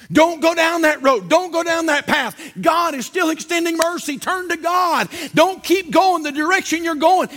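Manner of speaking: high-pitched, insistent preaching; urgent warning. Shown as a demonstration. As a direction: plead with them to turn back. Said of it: "Because you're warning".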